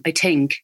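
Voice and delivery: "I think" with a hard T in place of TH. Shown as a demonstration. Voice coach showing the Southern Irish T in "I think". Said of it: "That's why they say".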